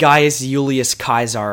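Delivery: GAIUS JULIUS CAESAR with a Y for J and a hard K for C; Latin pronunciation. Shown as a demonstration. Co-host showing how it's pronounced, Latin pronunciation. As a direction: say CAESAR as KAI-sar, JULIUS as YOO-lee-us. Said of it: "is how it's pronounced".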